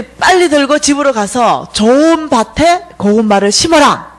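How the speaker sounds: slow, emphatic retold order; dream messengers' command. Dream visitors send her home to plant, emphatic command. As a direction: instruct with drawn-out stressed words. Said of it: "이러는 거예요".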